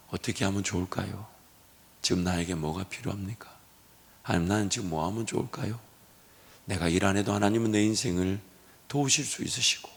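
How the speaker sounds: low, soft prayerful voice; quiet prayer. Acted. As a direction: call on 하나님 softly, over and over.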